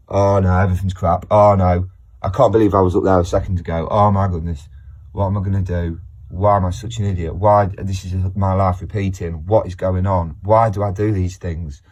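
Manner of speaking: hammed-up distress; mock panic. Shown as a demonstration. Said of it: "acting out the crash".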